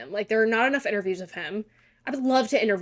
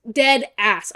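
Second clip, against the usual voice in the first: louder, landing hard on "Dead"; louder repeat; 6 dB louder than usual. Real, not acted. Insisting to viewers she means it, louder. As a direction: punch "Dead" up for emphasis.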